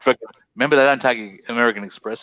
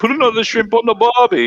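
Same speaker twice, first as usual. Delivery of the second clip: higher and louder, a hammed-up Australian accent; mock Australian accent; 12 semitones higher, 6 dB louder than usual. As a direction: ham up the Aussie cliché loudly. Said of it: "I have to try and do an Australian accent".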